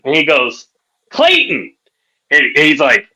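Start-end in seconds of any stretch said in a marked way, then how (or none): 1.1-1.7 mock high voice giving a name; high-pitched character reply. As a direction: answer in a high put-on pitch. Retold man answering his name.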